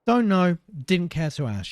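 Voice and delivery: high, loud dismissive reply; sniffy captain. Acted. Pirate captain dismissing the guard, sniffy and loud. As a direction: brush the question off. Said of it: "she sniffed".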